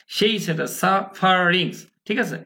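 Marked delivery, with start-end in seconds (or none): 0.7-1.9 সাফারিংস slowed, middle vowel an unstressed schwa. Shown as a demonstration. Teacher illustrating the schwa sound, unstressed schwa. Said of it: "যেটাতে stress হয় না".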